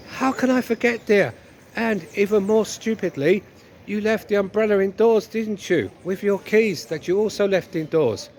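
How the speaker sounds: lightly put-on nagging wife; a touch of wifely scolding; reproachful wife. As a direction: lightly play a wife piling on the blame.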